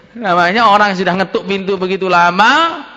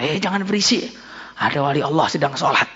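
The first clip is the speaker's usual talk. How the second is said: hushed warning; 3 semitones lower, 6 dB quieter than usual. Acted. Congregation hushes one another.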